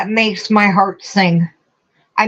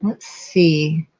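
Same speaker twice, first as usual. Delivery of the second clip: whispered to herself; 4 dB quieter than usual. Real, not acted. Reading to herself, hushed.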